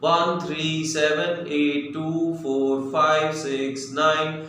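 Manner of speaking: slow, evenly spaced digits; unhurried digit-by-digit dictation; measured dictation speed. Shown as a demonstration. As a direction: give each number its own beat. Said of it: "like इस तरह से बोलूंगा".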